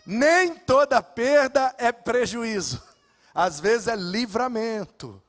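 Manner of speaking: slow, measured pastor's lesson; a hint of a wise old pastor; wise counsel. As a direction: give the advice calmly, word by word.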